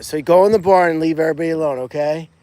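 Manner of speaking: loud, fast command to an animal; firm telling-off. Real, not acted. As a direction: shoo the pig off firmly. Telling pig Russell off.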